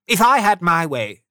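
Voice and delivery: high, loud miser's tirade; angry rant. A narrator's reading. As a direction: rail at Christmas in exasperation. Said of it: "Scrooge said angrily".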